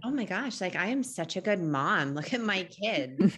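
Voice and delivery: hammed-up smug mom, slowing at the end; smug self-praise. Mom mocks her own pride after strangers' praise, smug. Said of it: "And I'm like".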